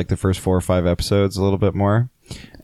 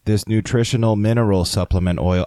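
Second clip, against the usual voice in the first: robot voice. Pretend. Robot pretending to be human.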